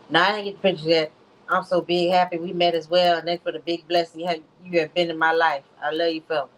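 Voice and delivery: lightly voiced imitation of his cadence; downplayed impression of him. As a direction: read his text with a hint of his way of talking. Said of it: "I'm downplaying his, his, his voice and his cadence".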